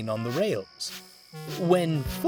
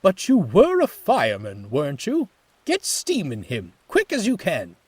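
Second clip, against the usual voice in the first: louder, higher impatient orders; exasperated boss; 6 semitones higher, 6 dB louder than usual. A narrator's reading. Manager exasperated with Jones, impatient. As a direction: hurry him up, fed up.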